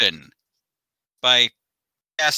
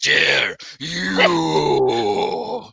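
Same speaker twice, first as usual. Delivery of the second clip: mock crying. Fake crying in duel.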